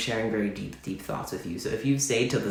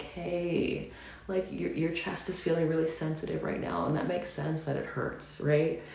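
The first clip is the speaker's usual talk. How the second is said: gentle, soothing self-talk, pitched higher; calming, soothing voice; 5 semitones higher than usual. Retold or imitated. To her hurting self, in a soothing, calming voice. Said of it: "in this calming, soothing voice".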